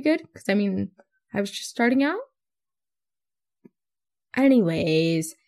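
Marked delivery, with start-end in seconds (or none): 4.4-5.3 drawn-out, lower "anyways"; self-mocking catchword. Podcaster parodying her own catchword, drawn out and low. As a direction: stretch the word out and let it sink.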